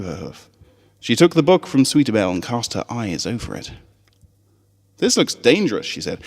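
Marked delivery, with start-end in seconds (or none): 5.0-5.9 put-on higher, skeptical young filly; a doubtful little pony teasing her friend. Scootaloo doubting Apple Bloom's speech, high and skeptical.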